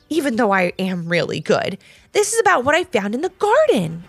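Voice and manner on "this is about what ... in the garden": high, excited announcement; mildly shouted, pitched up; shouting. Acted. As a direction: announce a big find eagerly. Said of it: "shouted Levi as he opened".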